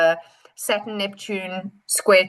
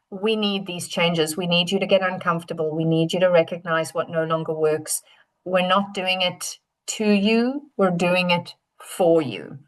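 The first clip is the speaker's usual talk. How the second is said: gentle Pluto; 4 semitones lower than usual. Acted. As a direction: hold them gently with the words. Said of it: "Pluto is just gently holding and saying".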